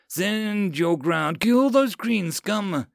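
slow, high, drawn-out war cry; rallying yell. Acted. Lieutenant urging marines on against goblins, yelled. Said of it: "Karath yelled again".

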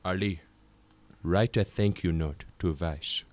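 put-on low, quiet, accented elder; wheezy dad impression. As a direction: imitate a wheezing dad giving grave advice. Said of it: "leans back in his chair and wheezes".

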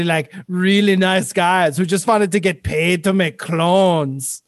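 a lightly voiced fake Jewish doctor; badly disguise yourself as someone else. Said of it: "novelty glasses with the fake nose".

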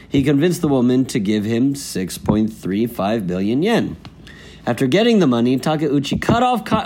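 measured, emphatic headline reading; news read. Acted. Co-host reading the day's fraud story, news read.

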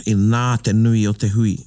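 emphasis on "nā", held long; stress on nā. Shown as a demonstration. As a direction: lean on nā before the rest. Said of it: "you put the emphasis on it".

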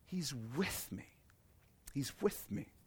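said softly to himself in awe; hushed, awed repeat. Shown as a demonstration. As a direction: let it sink in almost in a whisper.

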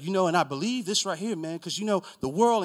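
worked-up mock preacher; sermon mode. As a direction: launch into an imitation sermon. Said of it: "he gets on his sermon mode".

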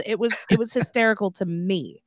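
normal talking voice

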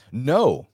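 loud, emphatic refusal. A narrator's reading. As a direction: punch the refusal with a jump in pitch and volume. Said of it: "responded with an emphatic".

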